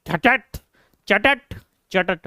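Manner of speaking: playful spat-out slap noises; tongue clicks acting out slaps; mock slap sounds. Shown as a demonstration. Teacher teasing the class with mock slap noises. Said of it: "यूं पकड़ूंगा चोटी".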